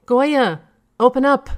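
loud, high barked order; military demand. A narrator's reading. General at the door demanding Goya open up, barked. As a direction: pound out an order like a soldier. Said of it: "he demanded in his military characteristic".

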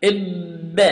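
إب with the ba popped and echoing; bouncing ba. Shown as a demonstration. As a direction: release the ba with a bounce. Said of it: "say it after me".

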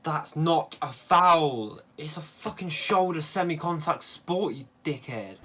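angry protest. Real, not acted.

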